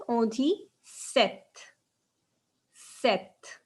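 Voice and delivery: sept said slowly as set; slow model pronunciation. Shown as a demonstration. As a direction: drag out On dit sept for learners. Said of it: "Comment on dit seven".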